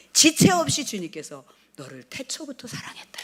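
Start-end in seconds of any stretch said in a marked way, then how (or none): 1.8-3.2 a soft unvoiced divine whisper; hushed whisper. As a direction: whisper "너를 태초부터 사랑했다" with breath only. Lord's voice retold softly. (속삭이듯 조용히)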